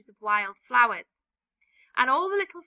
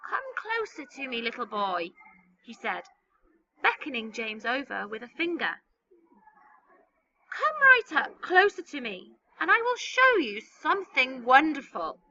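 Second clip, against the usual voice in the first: put-on lightly creaky old man; slow and creaky; 3 dB louder than usual. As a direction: coax the boy, old and creaky. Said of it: "his voice was very slow and creaky".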